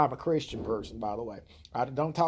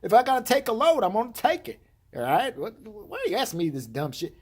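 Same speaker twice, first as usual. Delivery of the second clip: higher, louder indignant voice; indignant brother; 9 semitones higher, 4 dB louder than usual. Retold or imitated. Brother defending his loads, loud and indignant. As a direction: protest like the offended brother. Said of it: "He goes".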